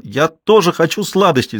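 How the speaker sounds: put-on a boy bawling for sweets; shouting. A narrator's reading. Boy on mother's lap shouts for sweets. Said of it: "закричал он".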